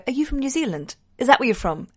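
lightly imitated British, pitch up on you then falling; a hint of a teasing Brit asking her origin; mock British accent. British fan asking the Australian host, mock British accent. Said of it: "'cause they go".

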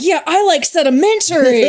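loud, laughing mock reply; laughing pun. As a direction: deliver the rock pun through laughter. Pun joke voicing Nick.

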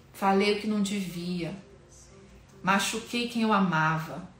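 earnest spoken prayer to God; a sincere, pleading prayer; heartfelt prayer. Acted. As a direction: pour out a confession before the Lord. Leads a confession prayer.

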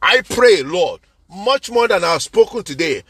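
steady, reverent prayer voice; closing prayer. Acted. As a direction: pray over the people, unhurried.

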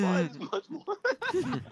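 high, slow, laughing fake British; mock British accent. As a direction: draw out a silly British accent. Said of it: "Too American".

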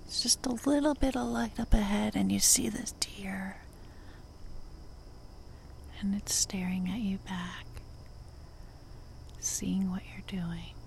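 unhurried nature-walk narration with long pauses; guided meditation. Acted. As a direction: lead listeners along the path, one short phrase at a time.

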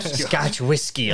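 put-on drawn-out old-timer's recognition; a slow touch of a mad old guy; lightly voiced old man. Old guy at the gas station, lightly imitated. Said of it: "a mad old guy came up".

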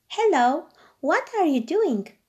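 put-on bright, high young princess voice; cartoon princess. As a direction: ask sweetly like a storybook princess. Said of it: "asked the princess".

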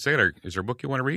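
put-on brightly asking a small child; sweet grandma voice. Grandmother quoting herself to child.

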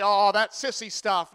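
slow, dismissive mock objection; drawn-out mock disdain; scornful objector. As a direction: imitate someone scoffing at sentimental talk. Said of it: "You say".

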